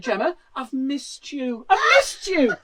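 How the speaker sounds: slow hammed-up sob; mock sobbing woman. Fan telling Greggs she missed it, hammed-up sob. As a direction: wail it like a lost love. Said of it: "the one woman said".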